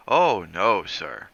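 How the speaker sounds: loud, earnest denial; pious protest. Acted. Driver piously denying anyone likes Buchanan, loud. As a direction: protest devoutly and loudly.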